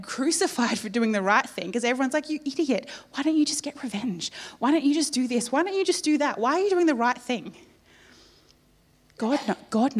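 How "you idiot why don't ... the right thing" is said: higher, scoffing questions; mocking taunt. Society jeering at a Christian, mild mocking taunt. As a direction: taunt the do-gooder.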